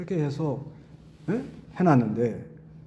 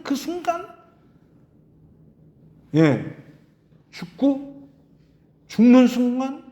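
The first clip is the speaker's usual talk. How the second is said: high, impassioned preaching climax; full-force preaching; 10 semitones higher than usual. Acted. (높은 음으로 열정적으로 외치는 설교)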